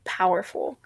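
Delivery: breathy awed whisper. Real, not acted. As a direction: drop to a whisper on the word. Awed remark on worship's power.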